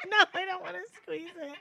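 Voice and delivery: squeamish laughing; grossed out and cracking up. Real, not acted. Disgusted laughter at chin.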